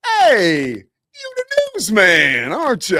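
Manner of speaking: high, loud, drawn-out taunting call; angry driver. Retold or imitated. Pickup driver taunting the newsman after the crash, high and loud. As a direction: jeer at the newsman from across the lot.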